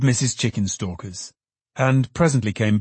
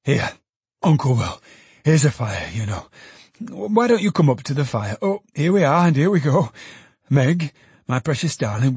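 put-on excited old Trotty; 3 semitones higher than usual. Trotty fussing joyfully.

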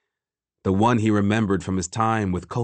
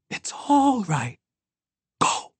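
strained reassurance; 12 semitones higher, slower than usual. A narrator's reading. Temba releases Ekon as she is seized.

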